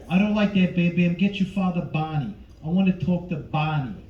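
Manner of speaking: lightly voiced De Niro, chuckling then pushing; a hint of a mob dad confronting the boy; mock tough-guy father, laughing between lines; De Niro as Fred. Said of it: "De Niro as Fred".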